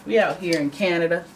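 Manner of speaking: put-on light American accent, slowed on igloos; playful put-on American voice; mock American accent. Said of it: "why am I doing an American accent for that?".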